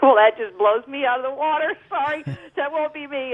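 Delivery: high, incredulous retold reaction; exaggerated high-voiced disbelief with a laugh; mock astonishment. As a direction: play up being blown away, pitched well up. Retelling her stunned reply to offer.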